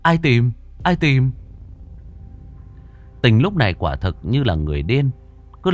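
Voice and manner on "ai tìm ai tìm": panicked. Acted. Panicked friend questions.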